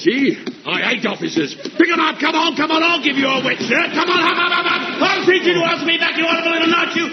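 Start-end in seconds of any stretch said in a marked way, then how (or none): 1.5-7.1 shouted drill cadence. Acted. Sergeant driving the running drill.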